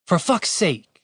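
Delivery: high-pitched exasperated oath. Acted. Woman fed up with her companion's gaffe, exasperated. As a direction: let out fed-up disbelief.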